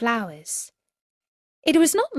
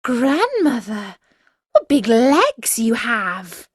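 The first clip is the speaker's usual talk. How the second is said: put-on amazed girl; 3 semitones higher, 5 dB louder, slower than usual.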